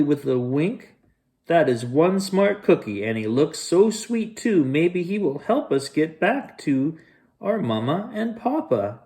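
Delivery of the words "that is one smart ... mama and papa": put-on lightly high sweet child voice; disguised child. Disguised wolf coaxes the cookie, lightly high and sweet. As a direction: coax the cookie like a lost kid.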